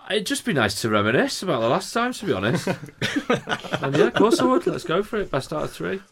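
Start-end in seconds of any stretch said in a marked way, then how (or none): 3.8-6.0 laughing challenge, pitch up; wrestling promo. Pretend. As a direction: call him out like a wrestler. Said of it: "is that you cutting a promo on Brian Kidd".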